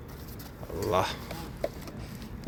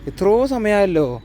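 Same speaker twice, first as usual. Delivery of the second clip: impatient; 9 semitones higher, 5 dB louder than usual. Real, not acted. Impatient about cooker whistle.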